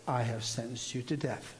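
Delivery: a hint of a sweet divine voice, hushed; gentle voice. The Lord repeating the sentence to him, soft and gentle. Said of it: "it's a gentle voice. It's really sweet".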